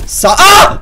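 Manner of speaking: sudden high yelp as he slips; startled cry. Real, not acted. Gamer slipping off a bridge, startled high yelp.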